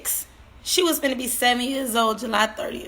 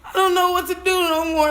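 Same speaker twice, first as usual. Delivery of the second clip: despairing; 6 semitones higher, 4 dB louder than usual. Real, not acted. Grieving mother breaking down.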